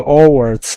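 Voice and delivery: "Hogwarts" with no H, like "Owarts"; funny dub pronunciation. Retold or imitated. Streamer recalling a beloved joke, "Hogwarts" said as "Owarts". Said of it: "It's a kinda funny pronunciation".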